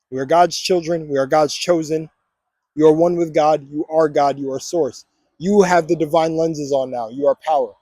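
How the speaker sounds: steady, deliberate affirmations; affirmation reading. Acted. Vlogger leading viewers through affirmations, steady and declarative. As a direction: declare each one with calm conviction.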